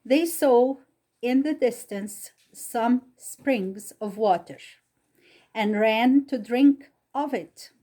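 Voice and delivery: deliberate read-aloud with long pauses between phrases; story narration. A narrator's reading.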